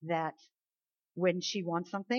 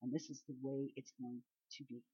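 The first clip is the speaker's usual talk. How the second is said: put-on toddler's declaration; 6 semitones lower, 4 dB quieter than usual. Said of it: "just like little Brielle".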